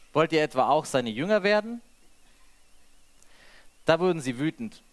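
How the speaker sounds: measured reading of the gospel passage; unhurried Bible reading voice; scripture reading. A narrator's reading. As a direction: read it out to the congregation, steady and clear. Reads the Bible passage aloud.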